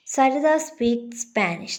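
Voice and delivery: "Spanish" falls at the end; falling statement tone. Shown as a demonstration. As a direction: read it as a statement, letting "Spanish" drop. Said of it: "and in answers".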